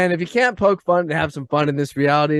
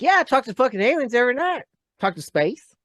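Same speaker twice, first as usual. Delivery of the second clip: mock casual alien talker.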